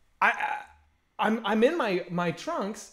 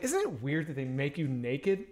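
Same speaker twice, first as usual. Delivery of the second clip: lower, softer, drawn-out question; casual low question; 5 semitones lower, 5 dB quieter than usual. Retold or imitated. Asking Brian about being naked at the spa, casual and low. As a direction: ask it slowly and low, feeling him out.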